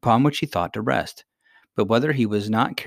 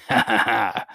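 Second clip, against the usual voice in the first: fuller acted "ha, ha, ha"; hearty royal laughter, mildly acted; louder laugh. A narrator's reading. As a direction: let the queen's laugh ring out a little. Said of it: "laughed the queen louder than before".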